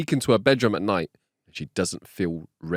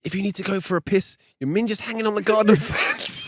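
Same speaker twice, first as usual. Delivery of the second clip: high punchline cracking into laughs; can't hold it together on the last words; laughing punchline; 12 semitones higher than usual. Acted. Telling the joke's last line, laughing through it.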